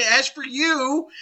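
slow, high accusing tone; single them out in acted reproach; stern rebuke. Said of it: "so we can understand the emotion".

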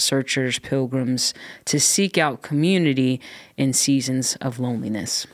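measured letter reading; reading a letter aloud. Acted. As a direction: read the listener's note out clearly. Reads listener's question aloud.

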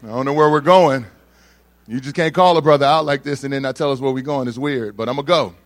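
inner protest. Retold or imitated. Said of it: "I'm like".

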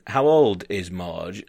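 put-on slow, careful Dutch-accented question. Dutch desk worker asking about Marge, light Dutch accent. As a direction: lightly imitate Dutch English, unhurried. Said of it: "she's, uh, she's Dutch".

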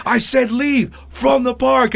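high, slow, emphatic mock shout; pissed-off umpire. Umpire repeating himself to a player, angry mock shout. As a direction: spell out the order like an angry umpire. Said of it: "The guy got all pissed".

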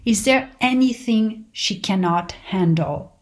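slow, measured poetic read; poem reading. Acted. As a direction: read it like an inspiring poem, slowly. Reads mother's poem aloud.

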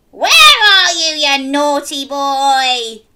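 loud, slow scolding; scolding mom. Acted. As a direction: tell off the naughty boy. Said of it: "she roared".

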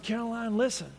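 soft retold fatherly appeal; gentle, quiet. Father gently addresses his daughter.

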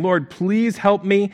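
slow, insistent begging. Acted. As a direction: stretch out each word like a plea. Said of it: "she's begging, saying".

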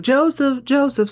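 high mock call for a missing puppy; calling out Joseph. Lance calling for the baby like a puppy, mock high call. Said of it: "He's like".

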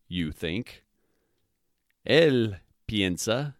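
slow conjugation drill. Shown as a demonstration. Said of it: "the way it's conjugated is".

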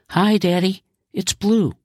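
put-on high, bubbly little girl voice; bubbling little girl. Daughter greeting her dad at the new car, bubbling. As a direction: chirp it like a delighted small girl.

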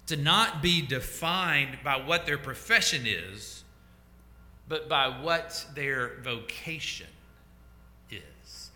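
"profession" and "vocation" set apart slowly with pauses; slow, deliberate. Real, not acted. Preacher lays out key line for congregation, slow and deliberate. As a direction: spell out the contrast slowly, pausing before "is".

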